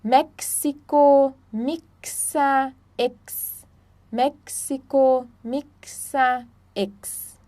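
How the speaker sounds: "México", "mixa", "X" with a crisp KS. Shown as a demonstration. Teacher showing German X, KS in "México", "mixa", "X". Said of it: "o X tem som de X".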